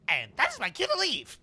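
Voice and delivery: a cowardly goblin backing off; nervous goblin. Acted. GM as goblin fleeing the death glare, nervous quip.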